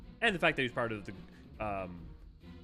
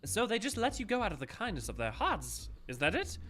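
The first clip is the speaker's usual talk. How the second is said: sharp, raised accusing voice; accusing game character; 6 semitones higher, 5 dB louder than usual. Acted. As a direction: confront them like a suspicious boss. Voicing a cutscene character.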